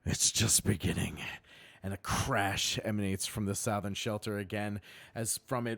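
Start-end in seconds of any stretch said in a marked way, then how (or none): 0.0-1.2 dying goblin. Acted. Wounded goblin's dying words.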